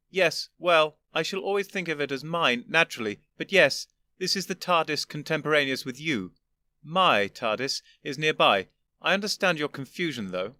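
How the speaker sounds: put-on an old gentleman patiently explaining; lofty old Doctor. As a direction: superior elder explaining to his younger self.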